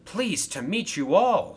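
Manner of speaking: high, loud and pleased; happy greeting. Acted. Engine meets Thomas and his coaches, happily. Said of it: "said the engine happily".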